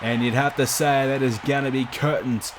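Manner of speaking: lively wrestling play-by-play call; wrestling commentator. Acted. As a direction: call the match like a ringside announcer. Live game match commentary.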